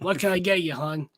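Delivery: lightly voiced coffee-shop waitress; a hint of a friendly diner waitress; diner waitress Flo. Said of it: "I sound like a coffee diner named Flo".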